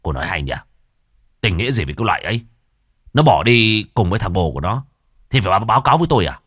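loud, fast contemptuous retort; angry husband. Acted. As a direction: snap her off with scorn. Husband snaps at sister-in-law.

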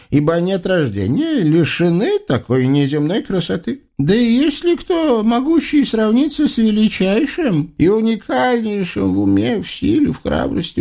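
high, solemn fawning praise; booming biblical narration. Acted. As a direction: extol the sultan grandly. Flatterer keeps praising.

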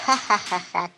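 mocking laugh.

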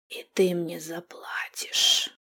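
slow raspy whispered crone threat; creaky old hag voice. Acted. Witch threatening the captive in a creaky crone voice. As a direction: creak it out like a vile old woman. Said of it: "проскрипела она мерзким старушечьим голосом".

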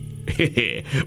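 short, soft knowing chuckle. Acted. Brother-in-law teasing Pramatha about ghosts, a soft chuckle. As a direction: chuckle softly before boasting.

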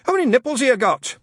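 put-on loud, impatient old Scot; testy. Shadwell losing patience with Newton, testy and loud. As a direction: snap it testily.

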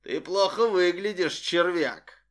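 smug, gloating villain voice; Yamada, deeply satisfied. Acted. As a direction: savor every word of the taunt. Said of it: "В голосе Ямады слышалось глубочайшее удовлетворение".

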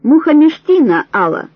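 loud, high barked name; guard calling the roll, loud; roll call shout. A narrator's reading. Guard calls roll loudly.

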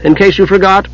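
high-voiced, mildly miffed kender; put-upon kender. A narrator's reading. Tass reminding the mage of his name, miffed. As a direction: correct them in a high little voice.

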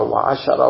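وعشرة with a short a after the shin; fatha on the shin. Shown as a demonstration. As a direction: say وعشرة as "wa-ashara". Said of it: "والفتح والكسر".

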